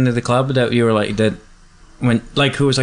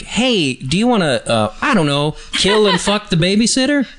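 mock creepy come-on; 7 semitones higher than usual. Mock pitch of a creepy proposal.

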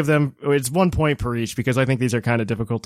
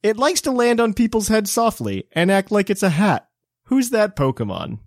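quiz entry reading; 5 semitones higher than usual. Shown as a demonstration. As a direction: read out the clue like a game show host. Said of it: "and it reads".

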